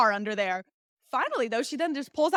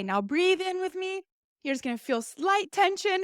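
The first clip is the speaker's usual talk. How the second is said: lightly imitated doctor, higher pitched; soothing doctor; 7 semitones higher than usual. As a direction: mimic a doctor gently guiding a patient. Imitates doctor guiding patient.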